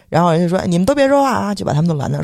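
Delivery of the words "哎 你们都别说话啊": higher-pitched mock hushing of bystanders; retold bossy shushing. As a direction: cut them off, raised pitch. Bystanders being shushed in retold quarrel.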